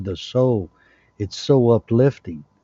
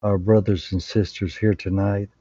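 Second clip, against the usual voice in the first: earnest, even-toned prayer voice; measured, reverent prayer with pauses between phrases; closing prayer. Real, not acted. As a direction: lead the group in a humble blessing.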